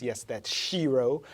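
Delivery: "Shiro" slowly and clearly set out; deliberate emphasis on "Shiro"; stress on Shiro. Shown as a demonstration. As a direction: spell out "Shiro" by saying it slowly. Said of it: "rhymes with hero".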